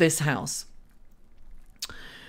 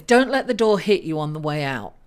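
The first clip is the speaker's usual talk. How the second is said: a firm, pointed mock dismissal; dismissive send-off; 5 semitones lower, 4 dB louder, faster than usual. Astrologer voicing the reader's mood to viewers, pointed mock dismissal. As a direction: show them the door, lower and pointed. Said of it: "the energy that you're portraying is".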